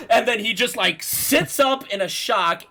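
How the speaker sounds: ordinary delivery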